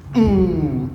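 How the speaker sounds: rhythmic hum. Shown as a demonstration. Coach sounds out rhythmic motion.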